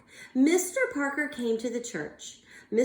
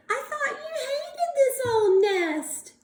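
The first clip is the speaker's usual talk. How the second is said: much higher, laughing through tears; laughing surprise; 13 semitones higher than usual. Acted. Bird overjoyed to find his wife alive. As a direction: laugh with relief.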